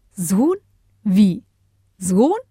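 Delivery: questioning with sharply rising tune; astonished. A narrator's reading. Bodo hears the mayor has a son, astonished. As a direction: echo it in disbelief, pitch swooping up. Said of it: "fragte Bodo erstaunt".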